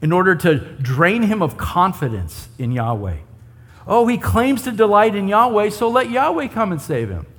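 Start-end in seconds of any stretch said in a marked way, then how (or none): 3.9-7.2 mock sarcastic taunt. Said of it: "it's this sarcastic thing".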